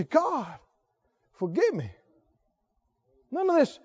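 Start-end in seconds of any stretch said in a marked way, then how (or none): 0.0-1.9 softly murmured plea for forgiveness; hushed, penitent prayer; humble prayer. Acted. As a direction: pray it low and soft, in repentance. Acted prayer of repentance on knees.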